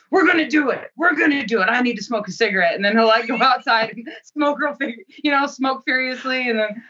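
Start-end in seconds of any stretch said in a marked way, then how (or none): 0.1-2.7 imitating coach Bob. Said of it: "he's so funny 'cause he's like".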